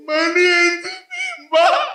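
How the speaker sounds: squeaky high pleading, slowed; imitating the toilet attendant high and slow; high mock attendant voice. Toilet attendant begging the comedian for money, high squeaky plea.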